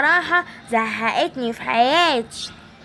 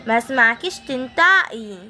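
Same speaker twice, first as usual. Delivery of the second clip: put-on a lowered, slow menacing old woman; evil granny threat; 2 semitones lower than usual. Evil granny threatening the girl she kidnapped, low and slow. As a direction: growl threats down at the little captive.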